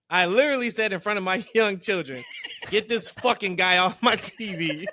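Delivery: amused mock outrage, slowing on the punchline; laughing retelling. Reading Eric's tweet about Goldberg to co-host, laughing. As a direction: quote a friend's outburst through laughter.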